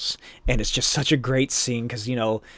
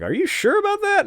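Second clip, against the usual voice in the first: much higher, doubtful goon voice, thinly pitched. Retold or imitated. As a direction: squeak out the doubt like a nervous henchman. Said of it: "And the guy's like".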